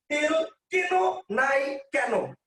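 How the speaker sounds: first কেন as buy, second as why, slowly; slow, careful contrast of the two কেন; two kinds of কেন. Shown as a demonstration. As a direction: mark the two different কেন. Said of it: "এখানে কিন্তু উচ্চারণ করতেছেন এ দিয়া".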